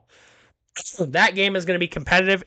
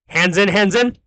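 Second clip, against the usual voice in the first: halftime pep speech; 2 semitones higher than usual. Pretend. Team huddle chant to viewers.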